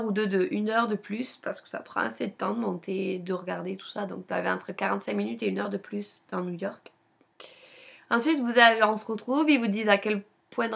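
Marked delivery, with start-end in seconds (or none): none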